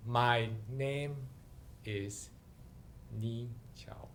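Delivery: a faint, fading whisper of a name; trembling stage-fright whisper; weak, barely audible. Acted. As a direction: say your name like you've lost all nerve. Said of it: "came out really weak and barely audible".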